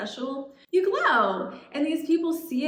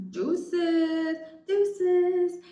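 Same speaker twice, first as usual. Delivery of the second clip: sassy goodbye; 7 semitones higher than usual. Retold or imitated. Leaving the insecure friends.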